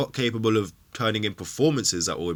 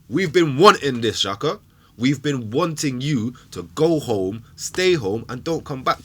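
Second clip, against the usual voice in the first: louder, slow, spat at Xhaka; angry send-off; 3 semitones higher, 5 dB louder, slower than usual. Real, not acted. Fan telling Xhaka to go home, loud slow anger. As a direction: drive him out slowly.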